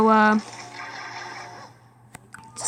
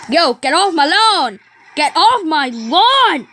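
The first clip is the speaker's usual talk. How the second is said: mock indignant yell; 2 semitones higher than usual. Playful yelling at game enemies.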